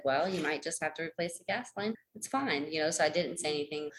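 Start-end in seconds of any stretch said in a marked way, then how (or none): 0.0-2.7 soft, resigned self-talk; little inner voice. Retold or imitated. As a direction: murmur it to yourself, softly. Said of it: "this little voice said".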